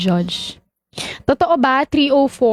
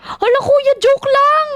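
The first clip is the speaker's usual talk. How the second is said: very high, squealed plea; overwhelmed, insisting it was only teasing; flustered protest; 12 semitones higher, slower than usual. Real, not acted. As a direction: protest in a high, panicked-playful wail. Protests that begging was a joke.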